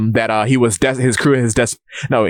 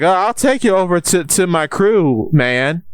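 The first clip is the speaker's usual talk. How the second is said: casual stranger; 6 semitones higher than usual. Acted. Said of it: "And he's like".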